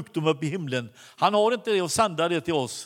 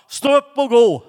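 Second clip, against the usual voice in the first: loud, raised-pitch order; shouted command; 5 semitones higher, 9 dB louder than usual. Retold or imitated. Preacher commands the praising woman to walk, acted shout. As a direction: call it out as a healer's command.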